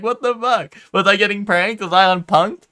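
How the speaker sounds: high, baffled squeak; a bewildered replay of the moment, pitched high; mock disbelief. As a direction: sound like you are being pranked. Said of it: "I'm like".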